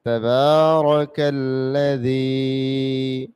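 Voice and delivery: তাবারাকাল্লাযী as one long flowing chant; read together. Shown as a demonstration. Teacher reading the joined phrase for students, slow melodic chant. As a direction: chain the parts of তাবারাকাল্লাযী smoothly. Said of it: "দুইটা বাক্য একসাথে".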